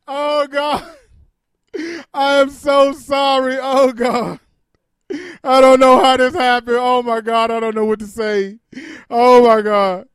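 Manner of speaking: loud, hammed-up sobbing apology into the phone; mock crying apology. Comic to grieving friend, a hammed-up loud sobbing apology. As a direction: wail a fake-tearful sorry while still ordering. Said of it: "she was crying on the phone".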